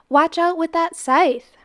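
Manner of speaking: hissed whispered warning; a whispered warning about the scythe; urgent whisper. Acted.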